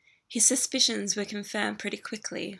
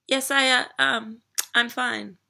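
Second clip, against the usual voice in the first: stammering; 3 semitones higher, 7 dB louder than usual. Acted. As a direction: stumble nervously through it. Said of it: "More stammering".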